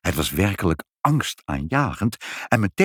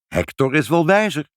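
lightly amused, higher voice; laughing reply; 7 semitones higher, 3 dB louder than usual. A narrator's reading. Mother to Pinkepank about his dog, lightly amused. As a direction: brush it off with amusement. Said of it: "lachte moeder".

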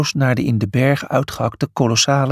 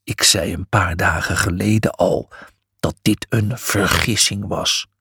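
scornful; 6 semitones lower than usual. A narrator's reading. Miles reminding Julius of his warning, scornful. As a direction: scoff in a much lower voice. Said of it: "schamperde Miles".

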